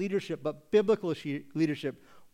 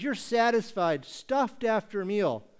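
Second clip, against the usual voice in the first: higher, slow mocking tone; sarcastic; 4 semitones higher, slower than usual. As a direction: draw it out with sarcastic relish. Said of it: "he's gonna do it using sarcasm".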